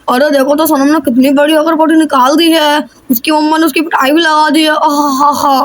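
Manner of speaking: low, mocking, lightly sneering voice; gloating boy. Chintu gloating to himself about Sonam's punishment, low mocking voice. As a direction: relish the other kid's trouble, low and mocking.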